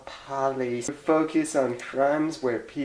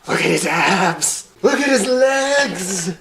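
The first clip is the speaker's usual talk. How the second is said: excited gushing; 7 semitones higher, 8 dB louder than usual. Acted. Gushes over the doll.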